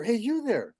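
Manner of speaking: high-pitched bird call; goldfinch calling. Acted. Goldfinch to man looking at his yard, high-pitched calling.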